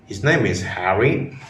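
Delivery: surprised tone. Shown as a demonstration. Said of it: "slightly rising tone that indicates you are shocked".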